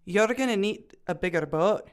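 dubious Scottish brogue; bad Scottish accent. Student performing the film line for the panel, bad Scottish accent. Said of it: "my dulcet Scottish brogue".

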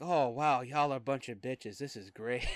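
sarcastic delight; mock praise at squeamish people. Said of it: "We're gonna be like".

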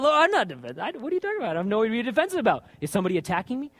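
half-hearted indignant protest to the Lord; mock defensive. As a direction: bristle as if accused. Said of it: "I said".

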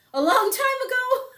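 joking falsetto aside about age; mock dramatic. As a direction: play up how old it was. Mock old-timer aside.

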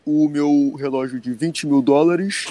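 slow, showy influencer voice; lightly imitating a flashy carioca influencer; Felipe Escudeiro voice. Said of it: "É um jeito meio esquisito de falar".

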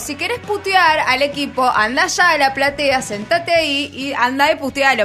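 agudo y lento, firme; reto al hincha recreado. Retold or imitated. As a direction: poner en su lugar al que putea. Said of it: "Y le dije". (le reta al hincha en la popular, firme y lento)

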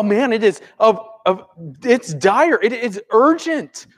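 high, urgent exclaiming; freaking out. Acted. People in a desperate situation, urgently freaking out. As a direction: stress how dire it is. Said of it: "I'm freaking out on the inside".

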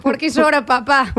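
put-on innocent child voice; lightly played five-year-old; a small child asking after a parent; little daughter. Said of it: "Lola tiene cinco años. Es nuestra hija".

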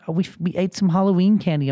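lightly voiced little girl confessing; imitated daughter. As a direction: mimic a kid owning up. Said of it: "She's like".

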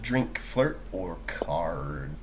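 slow, breathy whisper of the options. Real, not acted. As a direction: whisper the list slowly. Repeats the options.

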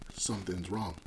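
low, quiet retelling of a sinking feeling; understated unease, dropped in pitch and volume; uneasy hunch. Retold or imitated. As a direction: say it low and softly, as a private hunch. Retold uneasy inner hunch.

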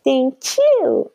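voice jumps up. Real, not acted. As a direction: gush it out, cornball cheesy. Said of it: "my voice went up four octaves".

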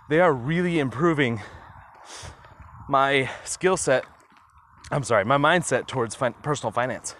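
breathless while walking; talking winded mid-walk; out of breath. Real, not acted. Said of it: "totally out of breath today".

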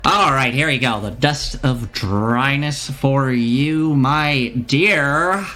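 slow, drawn-out presentation of the wares; showman shopkeeper. Acted. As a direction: present the item with a merchant's flourish.

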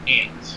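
"aunt" said like "ant"; short a in "aunt", as in "cat"; slow, shown "aunt" with the vowel of "pant"; Midwest pronunciation. Shown as a demonstration. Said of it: "over in the Midwest, we say".

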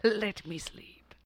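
slow, drawn-out whisper; mock groggy, very soft moan; sleepy plea. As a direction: beg drowsily in a whisper. Sister voices the sleeper pleading.

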